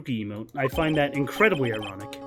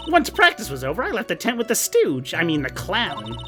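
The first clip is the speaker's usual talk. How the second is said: silly clown. Acted. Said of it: "so similar to my clown voice".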